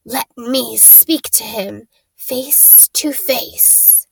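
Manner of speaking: slow, deliberate and quiet; a slow, quiet demand from the shadows; slow commanding voice. Acted. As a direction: draw each word out with menace. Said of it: "The high voice spoke again".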